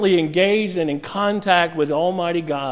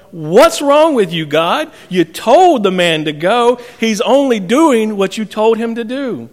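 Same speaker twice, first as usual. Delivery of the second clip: raised, incredulous challenge to God; indignant protest; 4 semitones higher, 4 dB louder than usual. Retold or imitated. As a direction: protest it, higher and louder. Preacher voices his indignant protest to God.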